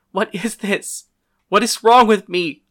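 high, loud, desperate questioning; distressed outcry. A narrator's reading. Narrator in pain asking the girl for answers, distressed outcry. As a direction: cry out, building to a near scream. In agony, demanding an explanation.

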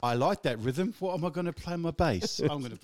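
put-on a faint, failed English accent; attempted English accent. Quoting a bassist in a barely-there English accent. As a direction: lightly try an Englishman's voice, barely shifted. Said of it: "that's not his accent".

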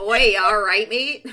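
put-on British-accented matey check-in. Co-host redoes the line as British, in a British accent. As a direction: say it like a Brit. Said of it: "Except the British equivalent of that".

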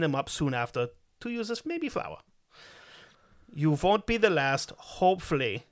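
put-on reading the message aloud in a German accent; German-accented reading of a chat message. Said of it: "I'm semi-fluent in a German accent".

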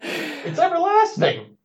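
slow, high and teasing; mock solemn. Teasing emphasis.

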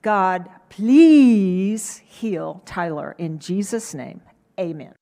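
slow, deliberate pleading prayer; heartfelt slow prayer; earnest prayer. Retold or imitated. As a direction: draw the prayer out slowly and earnestly. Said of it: "So I prayed".

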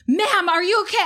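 high-pitched retold concerned question; imitated paramedic. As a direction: mimic a paramedic checking on her. Acted paramedics at confrontation.

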